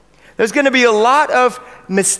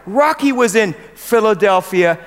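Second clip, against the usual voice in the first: eager chatter. Pretend. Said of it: "suddenly you go".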